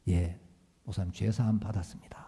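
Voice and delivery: hushed, fast meek whisper; whispered reply to the pastor; timid whisper. Retold or imitated. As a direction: answer small and scared.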